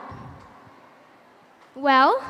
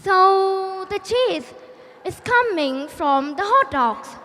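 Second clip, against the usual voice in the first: slow, stretched-out second attempt; acted engineer drawing out the opening words; trying again to explain. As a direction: explain laboriously to someone who isn't getting it. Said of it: "The Korean guy still doesn't understand him".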